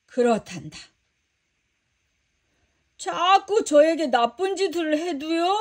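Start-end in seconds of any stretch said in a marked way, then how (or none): 3.0-5.6 put-on a higher, boyish voice, pleading in disbelief; young Peter, unsure and asking; lightly voiced young disciple protesting; child disciple voice. Peter doubts Jesus's teaching.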